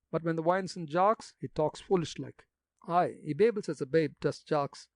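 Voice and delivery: put-on gossipy old gravedigger in broad country dialect. Jacques boasts.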